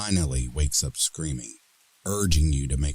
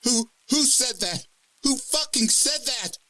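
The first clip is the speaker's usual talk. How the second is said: fear turning to anger. Acted. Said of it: "Fear becoming frustrated anger".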